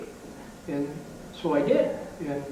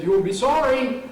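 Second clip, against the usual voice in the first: higher-pitched mock holler; retold holler; 7 semitones higher, 3 dB louder than usual. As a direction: call it out like a catcher's warning, not full volume. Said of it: "he hollered out".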